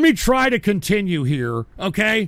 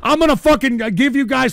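high, loud sputtering rant; real heated yelling; angry outburst; 4 semitones higher, 5 dB louder than usual. Real, not acted. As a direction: shout it in exasperation. Angry at viewers about July fourth.

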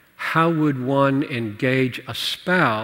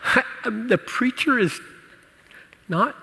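higher-pitched imitation of a reluctant kid; kid's complaint; 8 semitones higher, 5 dB quieter than usual. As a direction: lightly voice a child's hesitant complaint. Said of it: "As a kid".

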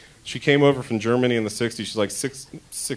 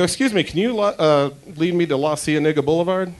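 polite ask; 5 semitones higher than usual. Retold or imitated. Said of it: "I go".

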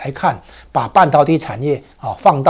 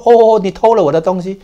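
whiny, hurt little complaint, a bit higher and louder; mock plaintive; 4 semitones higher, 4 dB louder than usual. America whining at Taiwan about theft, mock plaintive. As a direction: pout it out like a wronged victim. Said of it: "哀怨的口气".

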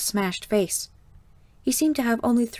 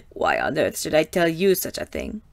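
lower, scornful raspy madam; scornful Mother; 5 semitones lower than usual. A narrator's reading. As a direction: dismiss the girl's question with contempt. Mother mocks the girl's question.

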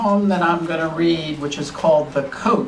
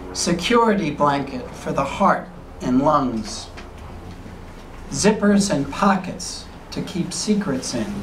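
measured poetry reading with long pauses between lines; poem recital. Acted. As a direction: read it as a poem, phrase by phrase, lingering in the silences. Reads own poem aloud.

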